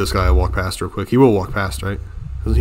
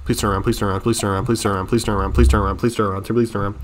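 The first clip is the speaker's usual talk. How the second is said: soft, repetitive begging; hushed pleading; 6 dB quieter, faster than usual. Real, not acted. Gamer begging an enemy to turn around, hushed pleading. Muttered plea to an approaching enemy.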